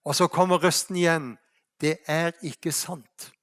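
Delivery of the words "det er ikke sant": slow, hushed divine voice; voice from heaven. Acted. God answering Rania's prayer, slow and hushed. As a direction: let God's correction fall slowly and softly.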